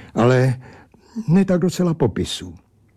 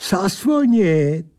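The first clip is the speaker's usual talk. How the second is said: lightly voiced drunken oddball, rising on Všecko; a hint of a tipsy barrel-creature lecturing; odd bottle creature grumbling; 7 semitones higher, slower than usual. A narrator's reading. Bottle creature scolds the narrator, lightly grumbling.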